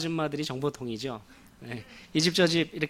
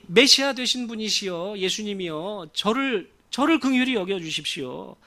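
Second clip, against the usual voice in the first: pleading call, a little raised; crying out; 3 semitones higher than usual. Acted. Beggar begs Jesus for mercy, raised pleading call. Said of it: "이렇게 고래고래 소리를 질렀습니다".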